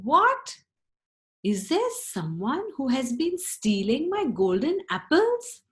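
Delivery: high, loud startled cry of What; an outraged king finding his apples gone; storyteller's shocked king voice; shocked Tsar. Acted. Angry Tsar finds apples missing.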